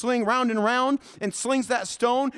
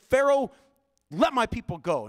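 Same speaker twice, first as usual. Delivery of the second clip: ringing preacher's demand to Pharaoh; bold call to Pharaoh; 3 semitones higher than usual. Shown as a demonstration. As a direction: stand before the king and command him. Moses confronting Pharaoh.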